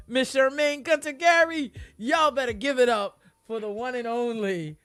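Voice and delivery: loud, big announcer voice; hype announcer intro. Acted. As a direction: bring the guest on like a boxing announcer. Hype host introduces the guest.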